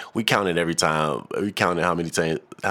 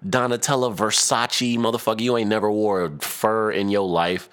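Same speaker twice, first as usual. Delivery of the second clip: higher, scornful disbelief; mocking disbelief, higher; incredulous retort; 4 semitones higher than usual. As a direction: call her out, not buying it. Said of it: "And I'm like".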